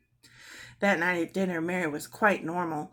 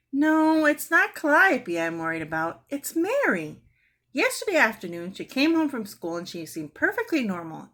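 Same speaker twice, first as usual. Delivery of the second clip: fretful mother; 3 semitones higher than usual. Acted. Worried mother on phone.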